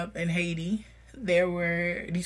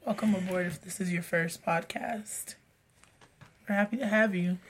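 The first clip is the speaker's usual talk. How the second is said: sick voice; 5 dB quieter than usual. Real, not acted. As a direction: talk through a sore, stuffy throat. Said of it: "a sexy radio voice".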